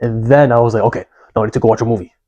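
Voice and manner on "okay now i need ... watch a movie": impulsive little inner-monster voice. Retelling own impulses after a productive morning: impulsive little monster voice. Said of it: "The reason why I'm doing this voice".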